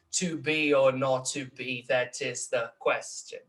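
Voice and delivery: slow, measured "to be or not to be", weak-strong; alternating iambic stresses. Shown as a demonstration. Lecturer scanning Shakespeare, slow weak-strong beats on "to be or not to be". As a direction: scan "to be or not to be, that is the question" beat by beat. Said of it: "Igualzinho no Shakespeare".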